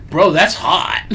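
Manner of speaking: laughing through a dudebro line; laughing bro voice. Retold or imitated. Acted dude voice reply.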